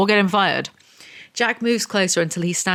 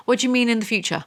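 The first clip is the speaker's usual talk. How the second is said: incredulous; 5 semitones higher, faster than usual. Real, not acted. Incredulous at the book.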